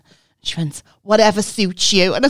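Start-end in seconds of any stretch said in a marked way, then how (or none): 1.0-2.1 louder, hammed-up Scouse leader; a hint of the very Scouse group leader; exaggerated Scouse. Leader brushing off a member's spaghetti question, mock Scouse. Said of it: "she was so Scouse, she sounded Welsh".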